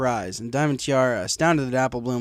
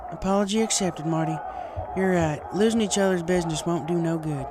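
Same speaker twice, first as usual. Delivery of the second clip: higher, plain-spoken farm pony; lightly voiced Applejack; 6 semitones higher than usual. Applejack accepts the apology, lightly voiced. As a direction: accept it with a nod.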